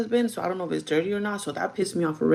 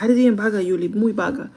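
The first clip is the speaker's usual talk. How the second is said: scolding mom; 3 semitones higher, 6 dB louder than usual. Retold or imitated. Mom telling daughter she's lazy, a scolding nag.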